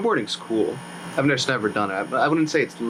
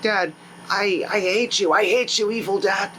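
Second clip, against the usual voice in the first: angry outburst; 6 semitones higher than usual. Retold or imitated. Son rebels against evil father.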